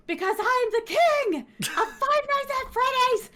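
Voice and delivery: high, slow, laughing imitation; imitating Markiplier. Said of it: "and he looked at the screen, and he said".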